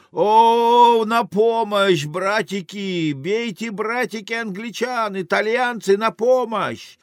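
high, drawn-out wailing appeal; cry for help. Acted. Beauty summoning Italians against the English, high drawn-out cries. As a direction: call the men to battle in a high voice. Woman calls brothers to fight.

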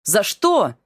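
protest, offended; indignant. Acted. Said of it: "возмутился Мика".

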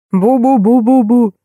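slow, muffled booming from underneath; muffled mumbling. A narrator's reading. Man trapped under the stuffed rhino, slow muffled mumbling. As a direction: mumble as if buried under a heavy head. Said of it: "донеслось из-под чучела".

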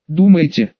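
plain reading voice

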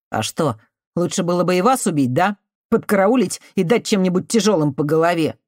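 put-on resentful cornered boy telling her to leave; bitter youth. Artemiy's bitter sarcastic retort.

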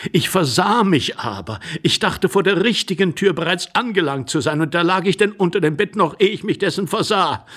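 put-on effusive, stumbling elderly gentleman; gush, then catch yourself and correct it; flustered apologetic suitor. Nervous intruder pleading with a lady, effusive and flustered.

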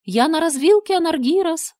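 high, loud sweet call; gentle woman calling. Acted. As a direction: lure him closer. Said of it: "откликнулся женский голос". (чудовище женским голосом манит Анаргироса)

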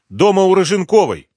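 a hint of a frightened woman; quick answer. A narrator's reading. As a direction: blurt out where she is. Rimma answers.

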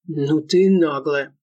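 slow, heavy, indignant thug voice. A narrator's reading. Корней возмущён её наглостью, медленно и тяжело. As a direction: drag it out, outraged at her cheek. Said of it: "возмутился Фердыщенко".

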